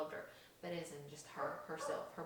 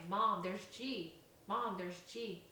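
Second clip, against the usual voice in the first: louder, slow calling out; calling out for mom; 3 semitones higher, 6 dB louder, much slower than usual. Retold or imitated. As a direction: call out to mom insistently. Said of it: "She keeps saying".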